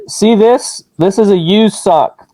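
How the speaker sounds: muffled through a mask. Real, not acted. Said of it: "can you hear me okay through the mask".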